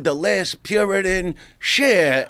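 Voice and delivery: showy introduction, voice lifted; live stage introduction. Retold or imitated. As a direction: announce the star to a full house.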